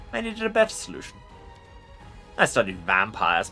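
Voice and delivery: commanding undead lich voice; ancient rasping undead king. Acted. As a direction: speak as a proud ancient lich. Lich voice in a game playthrough.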